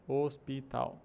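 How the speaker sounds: "Hospital" spelt out in even syllables; every letter pronounced. Shown as a demonstration. Teacher shows everything written is pronounced, syllable by syllable. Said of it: "é normal pronunciar tudo que tá na palavra".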